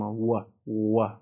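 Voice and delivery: و with pursed, rounded lips; و as a lip-rounded w glide. Shown as a demonstration. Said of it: "دوباره و نمیگم".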